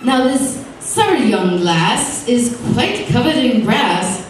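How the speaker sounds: slow, lilting limerick recital; sing-song verse read aloud; lightly performed poem; reciting a limerick. A narrator's reading. Poet reads his limerick.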